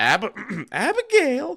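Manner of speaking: very high, loud, swooping, squeaky stammering falsetto. Greeting someone named Abigail with the cartoon line: Mel Blanc falsetto. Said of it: "I always have to do that".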